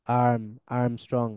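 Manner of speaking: long open vowel opening আর্মস্ট্রং; English soft আ. Shown as a demonstration. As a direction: start আর্ম without a catch. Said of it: "এরকম".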